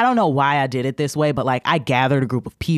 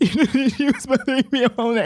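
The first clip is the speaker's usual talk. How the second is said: mock weeping; 8 semitones higher than usual. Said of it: "I'm s-, I am weeping".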